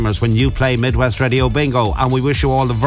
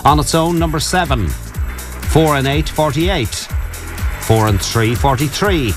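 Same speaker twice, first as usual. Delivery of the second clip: measured bingo number calls; bingo caller; 2 semitones lower than usual. Acted. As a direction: call each number with a pause.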